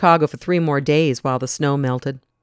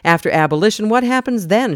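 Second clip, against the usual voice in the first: insistent, raised demand; 5 semitones higher, 4 dB louder than usual. Acted. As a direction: push the question hard, louder at the end. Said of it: "Shepard demanded".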